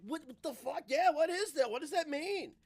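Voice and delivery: mock bafflement. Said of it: "And I'm like".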